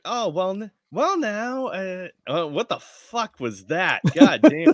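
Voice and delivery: a Southern mom catching her son at something; Southern drawl. Acted. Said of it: "stuck in a Southern drawl".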